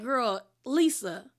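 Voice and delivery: drawn-out, slow "Lisa", then "really" jumping high; mock fed-up groan at a late friend; exasperated disbelief. The group reacting to Lisa's late flight, exasperated disbelief. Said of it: "And everyone's just like".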